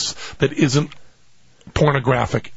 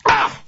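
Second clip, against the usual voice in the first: brief, contained yelp; short startled "ah". Acted. Comic showing how the burn felt, short startled ah. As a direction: let out a quick ah, short of a scream. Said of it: "That wasn't a scream".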